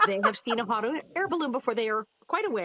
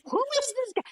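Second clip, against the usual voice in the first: sarcastic fire department; 2 semitones higher than usual. Retold or imitated. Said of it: "turned around and gone".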